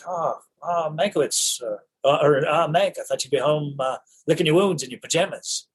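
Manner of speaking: put-on a touch of old Hollywood Mid-Atlantic; Mid-Atlantic accent. Oldman as Mank's rival greeting him in Mid-Atlantic accent. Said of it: "he's doing the Mid-Atlantic".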